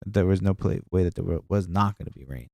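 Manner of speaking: talking with a blocked nose; stuffed-up nose; stuffy nose. Real, not acted. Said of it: "my nose gets, like, stuffed".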